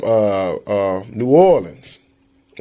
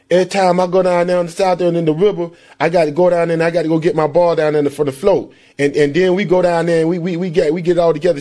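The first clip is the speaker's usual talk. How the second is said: higher, fast running mumble; mumbled Southern talk; 7 semitones higher, 3 dB louder, faster than usual. Retold or imitated. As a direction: rattle it off like the receiver. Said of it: "he'd be like".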